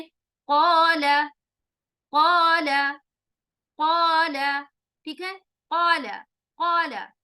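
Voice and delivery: क़ाला slow, with a heavy full mouth; heavy tafkheem qaala; heavy Arabic qaala. Shown as a demonstration. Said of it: "आवाज में भारीपन होगा".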